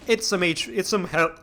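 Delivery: words cut off by a burp; interrupted by a burp. Real, not acted. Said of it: "my apologies for the, the burping".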